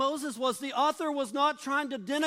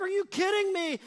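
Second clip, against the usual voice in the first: exasperated outburst; 5 semitones higher than usual. Retold or imitated. Moses scolding the idol-worshipping people, exasperated. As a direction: throw up your hands at the people. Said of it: "he's like".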